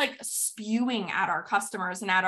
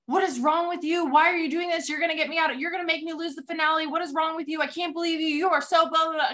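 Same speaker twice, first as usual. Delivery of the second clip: higher-pitched imitation of an angry partner; mock screaming; 6 semitones higher, faster than usual. Teammate berating her panicking partner in the finale, mock screaming. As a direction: rattle off a scolding rant, pitched up, without really shouting. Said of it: "standing there and screaming at him".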